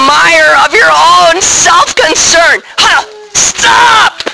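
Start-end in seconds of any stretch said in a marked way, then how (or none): 3.3-4.2 sharp stop. Acted. Calling the downcast listeners to halt, a high sharp shout. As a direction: cut them off hard. Preacher halts the spiral.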